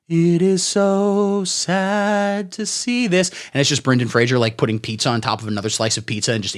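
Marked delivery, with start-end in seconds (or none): 0.1-3.3 mock solemn sadness. Mocking the film's sad scenes.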